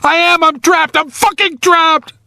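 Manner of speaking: very high, frantic insistence; panicked. A narrator's reading. Trapped man contradicts his rescuer, panicked. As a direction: let panic take over, pitched high. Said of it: "Now there was panic".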